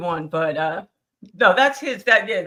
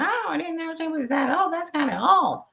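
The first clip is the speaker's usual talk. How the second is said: retold quote; 8 semitones higher than usual. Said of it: "And he said".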